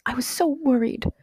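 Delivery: put-on high, plaintive child's voice; near tears. A narrator's reading. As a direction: let out the worry, close to crying. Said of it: "cried Cynthia, near tears".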